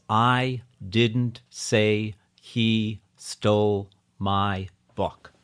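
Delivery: slow deliberate read of the sentence; measured even reading. Shown as a demonstration. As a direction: read it out word by word. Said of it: "read it out loud seven times".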